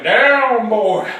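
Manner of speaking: loud order to a dog; forceful rider's shout; shouted command. Acted. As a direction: holler it to bring the animal under control.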